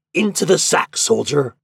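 high, loud order; shouted command. A narrator's reading. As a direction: call it out like a magic command. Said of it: "shout out".

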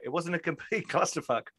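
quoting it through a laugh; laughing quote. Retold or imitated. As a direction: repeat the line while laughing. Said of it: "As Shara Dell's put".

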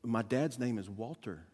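soft, low, hesitant imitation of a child; Diane. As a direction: answer timidly, trailing away. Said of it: "kinda stuttered again".

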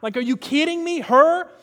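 exasperated cartoon heroine. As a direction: play the indignant sister from Encanto. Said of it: "And she goes".

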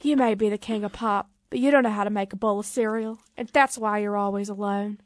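lightly voiced rock-and-roll king; a hint of an amateur Southern star impression; a singer. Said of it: "what does Elvis sound like?".

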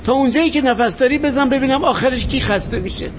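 beg, then dare the attacker to keep hitting; desperate defiant pleading. Acted. Acted scene of a beating, pleading.

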